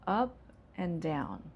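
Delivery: up rising, then down falling; rising then falling tune. Shown as a demonstration. Teacher showing the phone-number tune, rising then falling. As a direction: let the pitch climb on up, drop on down. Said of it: "you're gonna use intonation going up".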